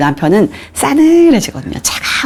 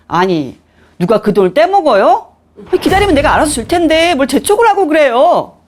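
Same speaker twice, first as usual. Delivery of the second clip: mock irritated landlady, pitch climbing high; 짜증스럽게 받아치기; 9 semitones higher than usual. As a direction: snap back, imitating an annoyed landlady. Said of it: "그쪽에서 짜증스럽게 받아치는". (짜증스럽게 쏘아붙이는 집주인 흉내)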